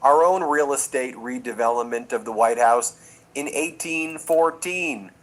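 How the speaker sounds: a hint of a prim British king apologising; playful impression of the monarch's dry joke; imitating King Charles. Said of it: "And he was like".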